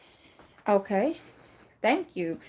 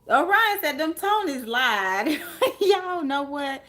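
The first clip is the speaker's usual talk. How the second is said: laughing; 5 semitones higher, 3 dB louder, slower than usual. Real, not acted. Laughing at comment.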